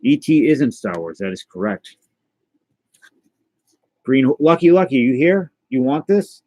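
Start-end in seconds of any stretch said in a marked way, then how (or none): 4.0-6.4 raised, higher calling voice. Real, not acted. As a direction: call out to the pet. Calling to pet Lucky.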